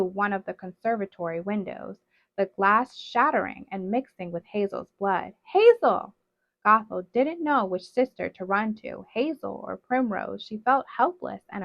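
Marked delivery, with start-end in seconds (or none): 5.5-6.1 a loud, high cry of a sister's name; anguished cry. Acted. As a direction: call out to her in shock. Sister thrown through window.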